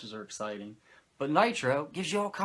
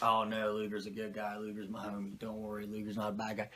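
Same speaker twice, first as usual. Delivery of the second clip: mock reassurance; 3 semitones lower, 7 dB quieter than usual. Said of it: "This thing's gonna be like".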